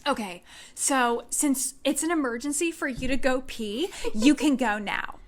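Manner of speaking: mildly sassy imitation of an official. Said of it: "she was so sassy".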